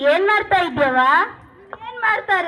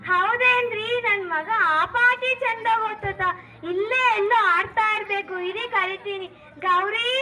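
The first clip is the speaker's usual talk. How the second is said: lightly voiced wife, higher and slow; a hint of a gentle village wife answering her husband; 4 semitones higher than usual. Wife role voiced by same speaker.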